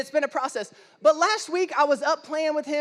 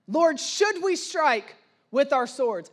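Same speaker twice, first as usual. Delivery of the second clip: disciples' question; slower than usual. Retold or imitated. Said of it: "they said".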